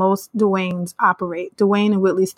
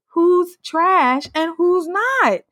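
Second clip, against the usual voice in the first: drawn-out, very slow, each word weighted; slow pointed question; 9 semitones higher, much slower than usual. Real, not acted. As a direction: let the question hang, very slowly. Rhetorical challenge, drawn out.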